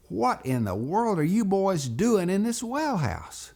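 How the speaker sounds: high-pitched, incredulous scolding question; astonished demand. Retold or imitated. Daddy finds his boys in the well house, astonished.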